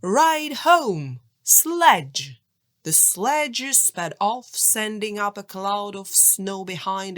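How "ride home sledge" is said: louder, higher magic command; shouted spell. A narrator's reading. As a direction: call out the charm with force. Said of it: "and shouted".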